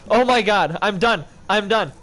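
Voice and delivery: fed-up cry; exasperated outburst. Real, not acted. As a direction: throw up your hands. Exasperated giving up.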